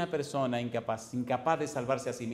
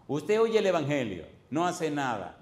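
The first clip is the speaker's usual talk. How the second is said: preaching emphasis; 3 semitones higher, 5 dB louder than usual. Acted. Predica repitiendo.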